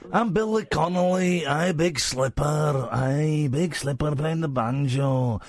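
drawn-out Scottish comic impression; lightly sketched Scottish accent, words stretched out; Billy Connolly. Host impersonating a banjo-playing comedian, Scottish accent. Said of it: "Right, you sound Scottish now".

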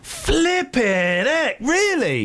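slow, rising disbelief; drawn-out flipping heck. Real, not acted. Disbelief at miners.

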